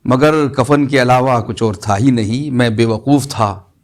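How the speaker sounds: measured mushaira verse delivery with pauses; ghazal recitation. Acted. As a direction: recite the couplet to an audience, phrase by phrase. (शायराना अंदाज़ में ग़ज़ल पढ़ना)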